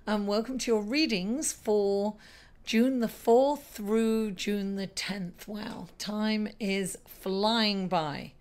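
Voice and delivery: slightly hoarse from shouting; a little raspy, voice worn out. Real, not acted. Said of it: "Excuse my little raspy voice".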